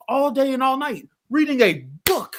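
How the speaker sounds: venting real frustration at the movie; real angry outburst. Real, not acted. Ranting about the dad.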